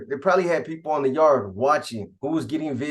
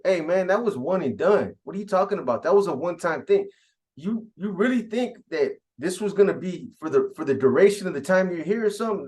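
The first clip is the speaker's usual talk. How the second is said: mildly raised pitch, retold scoffing; acted incredulous rebuke; 3 semitones higher than usual. Contact men tell Pelon it was a one-time deal, acted disbelief. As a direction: set him straight as if he's being absurd.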